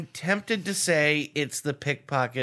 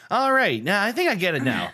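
sudden eager; 5 semitones higher, 3 dB louder than usual. Shown as a demonstration. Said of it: "listen to what I just said two more times".

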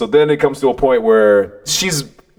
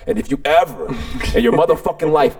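higher, building angry challenge; barking dare; 5 semitones higher than usual. Retold or imitated. Man daring the boy to do it again, heated bark. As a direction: build to a dare, retold with heat. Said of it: "literally barking in his ear".

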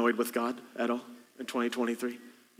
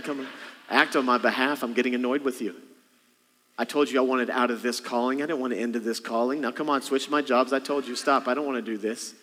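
annoyed complaint to God. Retold or imitated. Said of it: "Has that ever happened to you?".

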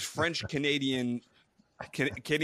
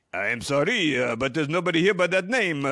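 louder, apologetic phone receptionist impression; hotel receptionist; 2 semitones higher, 5 dB louder than usual. Hotel receptionist tells caller nobody is there, mock-apologetic. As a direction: put on the polite hotel lady turning a caller away. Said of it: "the lady on the phone at the hotel".

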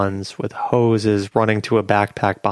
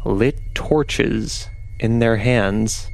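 ominous narration. A narrator's reading. Game master scene setting.

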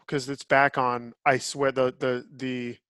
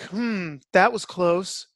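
mock emotionless action heroine, pitched up; Gal Gadot; 4 semitones higher, much slower than usual. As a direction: imitate an actress underreacting to danger. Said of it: "she's like".

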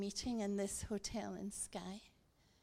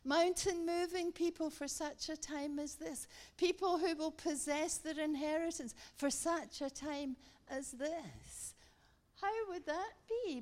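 higher-pitched, rousing sermon delivery; fervent preaching; 5 semitones higher than usual. Real, not acted. Preacher urging faith for such a time as this, fervent preaching. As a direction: build a rhythmic refrain, lifting each phrase.

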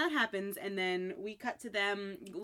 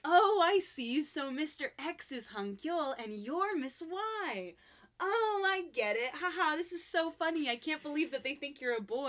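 put-on amused older man teasing her; 7 semitones higher than usual. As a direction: savor the joke, delighted. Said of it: "he's laughing".

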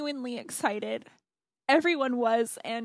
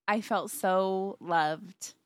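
near tears; 3 semitones lower, much slower than usual. Real, not acted. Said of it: "I'm gonna cry".

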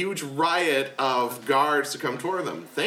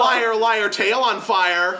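taunting; 10 semitones higher, 6 dB louder than usual. Acted. Taunting friend.

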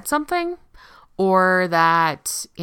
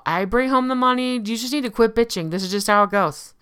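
dismissive partner; 5 semitones higher than usual. Retold or imitated. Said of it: "the famous one for women".

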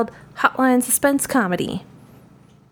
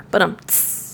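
mouth drum rimshot; 3 dB quieter than usual. Pretend. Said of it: "do the sound effect with your mouth".

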